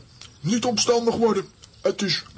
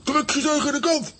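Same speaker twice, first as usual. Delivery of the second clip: high, urgent calling out; shouting about falling stones; warning shout; 5 semitones higher than usual. Acted. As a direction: yell a warning. Lambiek warns of falling rocks.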